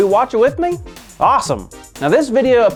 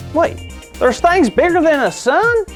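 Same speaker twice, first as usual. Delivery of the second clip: amazed; 8 semitones higher than usual. Acted. Host amazed by the video.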